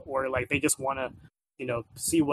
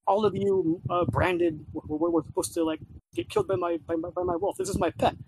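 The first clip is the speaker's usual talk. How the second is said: hammed-up bratty tirade; ranting bratty kid; 5 semitones higher than usual. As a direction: spit it at the slaves like a spiteful brat. Kid's racist tirade.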